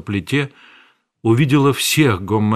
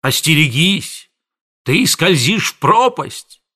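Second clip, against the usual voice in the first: high, loud, slowing threats; thundering; 5 semitones higher, 4 dB louder than usual. A narrator's reading. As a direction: boom out a warning. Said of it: "Аптекарь гремел".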